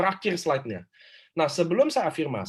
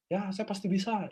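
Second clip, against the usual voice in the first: soft, listless mock affirmation; imitating a half-hearted, lifeless self-affirmation; limp affirmation; 3 semitones higher, 6 dB quieter than usual. Shown as a demonstration. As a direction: say it weakly, with no conviction. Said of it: "lemes banget gitu".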